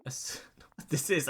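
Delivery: unvoiced whispered aside. Real, not acted. Streamer whispering while the AI talks. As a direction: whisper it to yourself.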